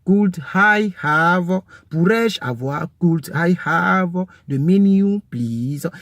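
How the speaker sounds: could I have the menu, please, spelled out slowly; slow polite request. Shown as a demonstration. Teacher slowly modelling a menu request for learners. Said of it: "il faut aller très vite".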